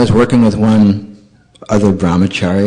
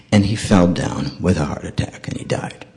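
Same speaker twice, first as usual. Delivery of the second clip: softer and lower, sinking to a whisper on died; hushed ending; 3 semitones lower, 6 dB quieter than usual. Retold or imitated. Warning the vacationing businessman about the man who died, hushed. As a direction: let the ending fall away to a whisper.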